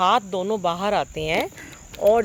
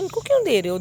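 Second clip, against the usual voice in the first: pitched way up, louder, objecting; indignant high protest; 10 semitones higher, 5 dB louder, faster than usual. Retold or imitated. To guru, why give it to a stranger, high indignant protest. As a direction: object sharply in disbelief.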